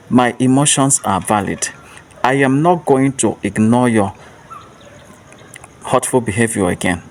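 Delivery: firm repeated affirmation, clearly spoken; loud and clear. Shown as a demonstration. Host repeats the affirmation with listeners, firm and clear. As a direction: say it again, steady and sure. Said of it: "Say it again with me".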